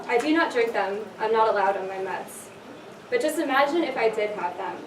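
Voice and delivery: measured spoken-word delivery, line by line; spoken-word poetry reading; poem recitation. Acted. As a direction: recite it as a poem, with pauses between lines.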